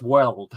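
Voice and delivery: "world" with the L and D run together; Rodgers' world. Shown as a demonstration. Streamer shows how the manager says the word, "world" with L and D merged. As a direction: say "world" blending the L into the D. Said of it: "He says the, the L and the D together in world".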